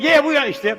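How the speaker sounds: mock mass yell of agreement; crowd yell. Troops answering the captain together, mock crowd yell. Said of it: "everybody screamed".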